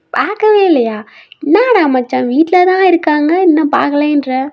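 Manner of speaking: can't believe it, push back; shocked disbelief. Acted. Friend shocked he hasn't seen wife. (நம்ப முடியாத ஆச்சரியம்)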